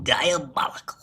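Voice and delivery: a breathy gloating whisper; whispered diabolical. Acted. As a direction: hiss it out as a villain would. Gloating about getting Miguel fired.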